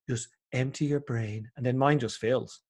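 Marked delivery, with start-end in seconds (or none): 0.1-1.5 slow, soft meditation teacher; guided meditation voice. Retold or imitated. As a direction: calmly tell the listener to empty their mind. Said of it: "these guys going".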